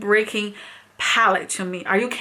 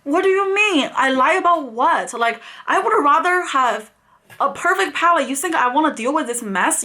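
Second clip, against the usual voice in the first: outraged rant. Retold or imitated. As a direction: defend yourself against being called a liar. Furious reply to lying accusation.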